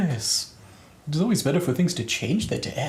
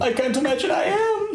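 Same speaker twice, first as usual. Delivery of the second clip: high, breaking into laughter; laughing fish voice; 12 semitones higher than usual. Acted. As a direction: fish line cracking up. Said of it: "says the fish".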